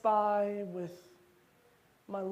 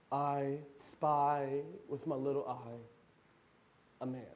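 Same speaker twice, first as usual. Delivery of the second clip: hushed dread; 5 semitones lower, 7 dB quieter than usual. Acted. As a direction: whisper it in dread. Quiet after shooting.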